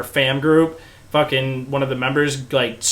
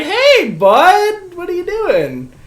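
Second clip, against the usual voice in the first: startled call; 6 dB louder, much slower than usual. Retold or imitated. Confronting stranger walking into RV.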